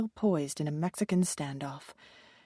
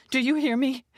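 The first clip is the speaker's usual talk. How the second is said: angry, higher and louder demand; bellowing; 6 semitones higher, 4 dB louder than usual. A narrator's reading. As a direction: bellow it at the agent. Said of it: "she bellowed".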